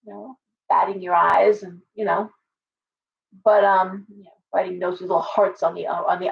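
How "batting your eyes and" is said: ordinary delivery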